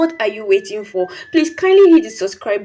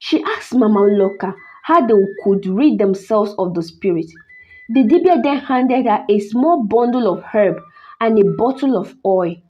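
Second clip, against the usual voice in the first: measured, dramatic storytelling; story narration. A narrator's reading. Narrator telling listeners of a cursed doll, story narration. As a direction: tell an eerie tale with careful pauses.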